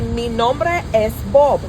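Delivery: slow "nombre" with the R tapped on the tongue; rolled R demo. Shown as a demonstration. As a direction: model "nombre" slowly with a tongue-tip R. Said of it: "So say".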